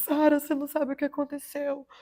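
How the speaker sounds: sobbing through the words, tearful crying voice. Retelling a sister's phone call with surprising news: imitating someone crying. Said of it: "A minha irmã me liga chorando".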